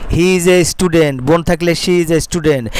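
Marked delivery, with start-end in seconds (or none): 0.1-1.2 slow dictation. Shown as a demonstration. Teacher dictates model sentence.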